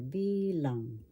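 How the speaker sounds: "bilang" said with the weight on "BI", the "lang" lighter; stress on first syllable. Shown as a demonstration. Teacher models "bilang" for learners, stressing the first syllable. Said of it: "The accent is in the first syllable".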